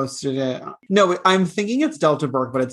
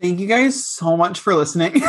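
mock outro shout; 3 semitones higher than usual. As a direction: shout a fake goodbye.

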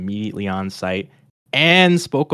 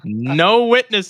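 menacing; 8 semitones higher, 4 dB louder, much slower than usual. Pretend. Joking villain line.

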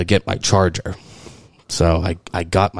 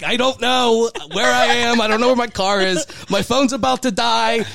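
retold panic; 14 semitones higher than usual. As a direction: replay the frantic call to the fiancé. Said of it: "And I'm like".

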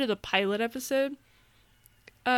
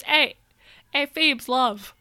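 put-on British accent; 2 semitones higher, 4 dB louder, slower than usual. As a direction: imitate a chummy British villain. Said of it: "I only have two British accents".

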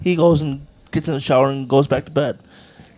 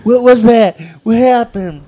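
retold angry yell; 4 semitones higher, 8 dB louder than usual. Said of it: "So he gets up and says".

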